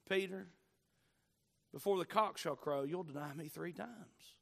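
quiet, loving warning to a friend. Retold or imitated. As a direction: break hard news tenderly, with pauses. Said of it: "with the same loving tone".

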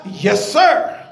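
firm, dogmatic affirmation; emphatic. Shown as a demonstration. Believer asked if going to heaven, emphatic answer. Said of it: "I want y'all to be emphatic".

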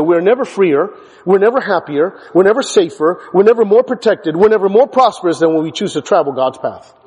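never punched in each line; stress on never. Acted. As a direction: hit never each time. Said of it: "take this with you".

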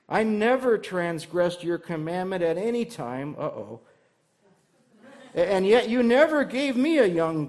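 loud, resentful complaint to his father; older brother venting his anger at his father; angry older brother. Retold or imitated. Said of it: "Remember what that older brother said in his anger".

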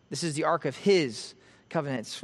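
"his" picked out, then a short break before "covenants"; stress on his. Shown as a demonstration. Preacher points out unusual wording to congregation, stress on "his". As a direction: lean on the word "his". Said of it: "which perhaps is just emphasizing".

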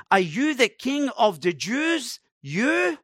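"You?" shoots up high in disbelief; disbelieving exclamation. Shown as a demonstration. Preacher mocking Pilate's disbelief at the prisoner, incredulous. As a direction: scoff at the idea, the final "You?" rising high. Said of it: "exclamation of disbelief".

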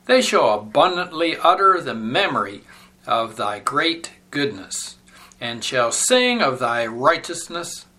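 measured, declamatory psalm reading; solemn scripture reading. Real, not acted. Instructor reading the sacred text to a standing class, solemn and declamatory. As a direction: read the psalm out with reverent, deliberate phrasing.

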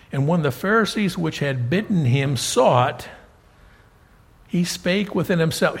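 emphatic Bible reading aloud; measured, projected scripture recitation. Acted. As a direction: read the verses out to a congregation, stressing key words. Reads the scripture account aloud.

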